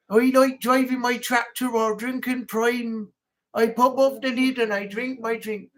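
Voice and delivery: a farmer boasting, accent sliding Indian; drifting accent. Shown as a demonstration. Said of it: "gone into, like, an Indian type thing".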